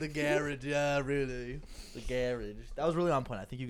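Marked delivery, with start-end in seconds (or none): 0.0-0.6 "garage" echoed as GARR-idge; "garage" stressed on the first syllable; imitated Irish pronunciation. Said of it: "calling the garage now the garage". 1.9-2.6 "garage" as GARR-idge, first syllable stressed; "garage" rhyming with carriage; imitated Irish pronunciation. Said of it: "calling the garage now the garage".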